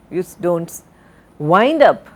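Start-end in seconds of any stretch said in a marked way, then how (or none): 1.4-2.1 "wind up" slow, punched, then falling; careful word stress. Shown as a demonstration. Teacher showing the right syllable to stress, slow "wind up". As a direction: lean firmly into "wind up". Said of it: "It's important to stress on the right".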